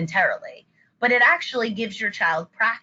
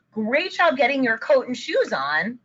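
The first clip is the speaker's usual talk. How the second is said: higher, upbeat parent praise; encouraging praise; 4 semitones higher than usual. Shown as a demonstration. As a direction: praise a child with a lift in the voice. Parent praising child ready for school.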